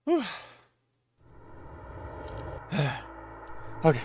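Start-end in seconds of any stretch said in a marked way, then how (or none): 1.6-3.8 breathless sigh. Real, not acted. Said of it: "So I'm a little out of breath".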